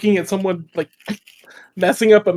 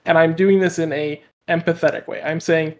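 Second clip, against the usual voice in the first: normal talking voice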